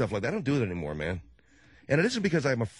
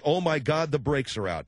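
mock panic; 2 semitones higher than usual. Shown as a demonstration. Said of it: "I say it in a kind of a way where they know it's a joke".

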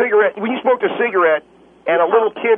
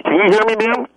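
shouting into a phone; 2 semitones higher, 3 dB louder than usual. Acted. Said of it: "Can you get ba-, back away from the phone?".

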